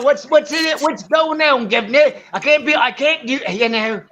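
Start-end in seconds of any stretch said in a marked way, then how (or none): 0.0-2.1 mock cockney. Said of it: "every last English accent".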